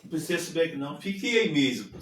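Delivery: mock condescending refusal; disdainful. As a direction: brush the little pastor off, mildly scornful. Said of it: "Se desdenhou de mim".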